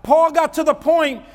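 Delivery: high, loud impassioned sermon; full-force preaching. Real, not acted. Preacher urges church on Paul's begging, forceful preaching. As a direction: drive every phrase home to the congregation.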